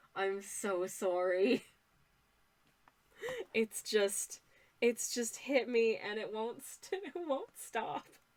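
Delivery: giggling and laughing through the words. Apologising while drawing, unable to stop giggling while talking. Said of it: "a rampant case of the giggles".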